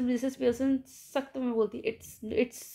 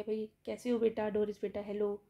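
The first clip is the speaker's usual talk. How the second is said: affectionate; 3 dB quieter than usual. Retold or imitated. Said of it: "बड़े प्यार से बोलती है".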